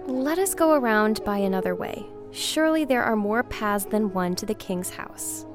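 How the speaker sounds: a touch of fear. A narrator's reading. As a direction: urge a detour, nervously. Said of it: "began to grow afraid".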